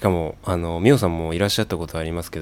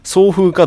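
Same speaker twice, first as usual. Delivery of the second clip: 送風 raised high and loud; high emphatic contrast; 11 semitones higher, 7 dB louder, slower than usual. Shown as a demonstration. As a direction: punch 送風 high as the alternative. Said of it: "どっちかなんですよ". (送風を高く強く)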